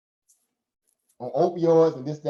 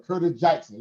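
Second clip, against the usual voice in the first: Southern accent. Shown as a demonstration. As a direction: say Curtis Jackson the Southern way. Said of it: "in my Southern voice".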